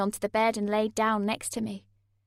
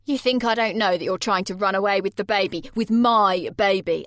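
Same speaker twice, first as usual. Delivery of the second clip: put-on louder, jealous boyfriend, slowing on "my baby"; angry accusation; 9 dB louder than usual. A narrator's reading. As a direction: snarl the accusation, dragging out the last words. Jay accusing her of escape.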